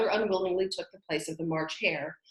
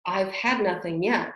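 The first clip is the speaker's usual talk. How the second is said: offended; 5 dB louder than usual. Acted. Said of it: "in an offended tone".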